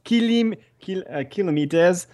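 put-on New Zealand accent. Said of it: "I can't do accents".

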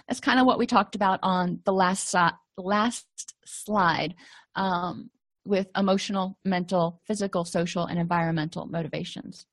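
hoarse, fading voice; voice giving out. Real, not acted. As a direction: voice cracking and giving out. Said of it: "Sorry, I'm losing my voice".

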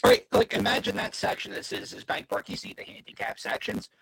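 distorted, glitchy call audio; robot voice. Real, not acted. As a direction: voice breaking up over a bad connection. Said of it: "you sound like a robot right now".

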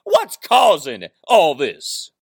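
slow, drawn-out promo line; Ric Flair. Retold or imitated. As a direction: stretch it like a wrestler. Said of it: "as Nate himself would say".

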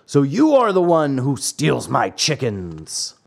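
understated angry accusation; mildly angry farmer. Acted. Farmer accuses the trapped puppet, mildly angry. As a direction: accuse him with a touch of anger. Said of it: "said the farmer in an angry voice".

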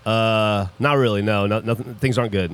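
lightly imitated low, gravelly guy; mock gravelly big-guy voice; gravelly mountain man. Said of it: "gravelly voice".

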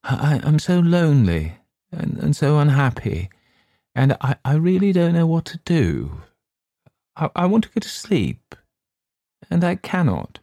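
high, stammering lonely voice; unhappy and lost, stuttering; lonely distress. Acted.

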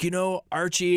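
put-on light New York accent; a hint of a New York accent; Ace's New York accent. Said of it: "in that whole New York accent".

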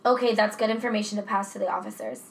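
lightly acted emergency dispatcher; a hint of level, businesslike call-taker; monotone dispatcher. Co-host playing dispatcher to a caller, mildly monotone. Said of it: "I did my best monotone voice".

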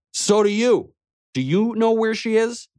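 indignant comeback. Acted. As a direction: throw the question back hard. Angry comeback to thug.

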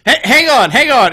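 loud, high, urgent interruption; flustered excitement. Acted. Excited Dewey interrupts the call.

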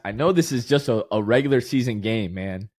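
holding back happy tears, voice sinking; teary, emotional. Real, not acted. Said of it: "I have tears in my eyes".

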